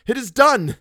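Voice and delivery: high, loud, triumphant proclamation; grand, ecstatic shout; exultant cry. A narrator's reading. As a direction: proclaim it to the nations.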